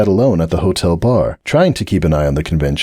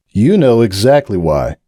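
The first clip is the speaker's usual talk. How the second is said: grumbling. Acted. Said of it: "Breakaway grumbled".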